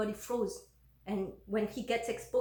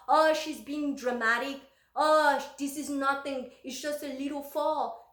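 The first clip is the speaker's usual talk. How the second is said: dismissive, raised-pitch retold brush-off; exasperated mimicry of a dismissive husband; 4 semitones higher, 4 dB louder than usual. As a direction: wave it away as mere drama. Acts out husband brushing off injury.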